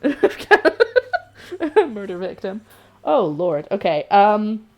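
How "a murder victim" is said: said through laughter, slow; laughing. Real, not acted. Laughing at own joke.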